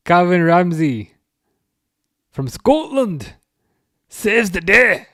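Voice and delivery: slow, high, grand commentary call; mock commentator. Fan hams up a commentator's call of the save.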